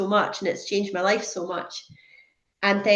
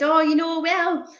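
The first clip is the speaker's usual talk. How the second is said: airy, higher-pitched brush-off; retold casual hedging, pitched up; acted blasé; 7 semitones higher than usual. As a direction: play it breezily unconcerned. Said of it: "I was being so blasé about it".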